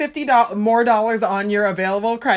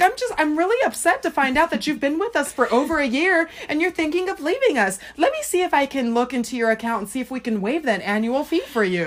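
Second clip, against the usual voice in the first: higher pleading rep voice; mock devastated rep; 5 semitones higher than usual. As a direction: lay the fake sadness on thick. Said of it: "She's like".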